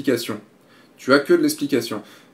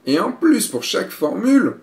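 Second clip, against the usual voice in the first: mock disbelief; 8 semitones higher, 4 dB louder than usual. Real, not acted. Listing too many pricing packages.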